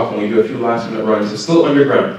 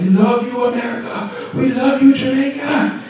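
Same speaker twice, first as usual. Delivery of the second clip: retold fan cheer; 13 semitones higher than usual. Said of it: "people are yelling down at us".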